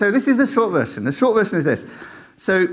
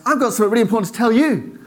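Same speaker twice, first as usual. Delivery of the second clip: quick, raised-pitch eager reply; acted eagerness, fast; excited news; 5 semitones higher, faster than usual. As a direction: blurt the same news straight back. Friend equally bursting with news.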